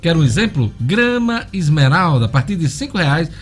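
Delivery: upbeat live radio ad read; hard sell ad. Acted. Host reads live sponsor ad.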